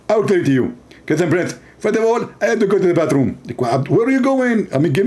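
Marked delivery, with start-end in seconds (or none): 1.1-3.3 a light parody of a preacher's lecturing voice; half-hearted preacher impression; mock Zakir Naik. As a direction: play a pompous debater, lightly. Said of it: "He speak like this".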